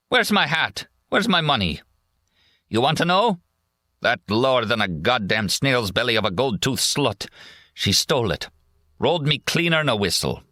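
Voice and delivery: put-on high, slurred drunk soldier railing; drunken rant. Drunk soldier cursing the woman who robbed him, high rant.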